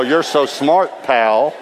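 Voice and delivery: slow, drawn-out sarcastic jab; sarcastic retort. Pretend. Preacher voicing the retort he never said to the man. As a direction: needle him with mock praise. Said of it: "I didn't say that".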